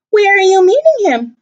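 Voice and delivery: snake voice. Acted.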